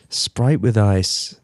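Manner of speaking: slow, low Australian "Sprite with ice"; a halting Australian accent try; Australian accent attempt. Shown as a demonstration. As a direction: drawl it out like an Australian ordering a drink. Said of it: "It doesn't sound good when I say it".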